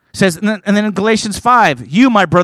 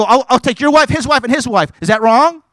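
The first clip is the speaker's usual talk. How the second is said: provocative retort; 6 semitones higher than usual. Retold or imitated. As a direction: throw the challenge at him. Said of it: "I'll go".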